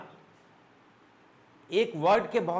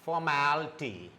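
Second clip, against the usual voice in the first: formality said carefully, a little lower; careful demo; 3 semitones lower, 3 dB quieter than usual. Shown as a demonstration. Teacher modelling formality for students, careful demo. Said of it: "Now the correct pronunciation".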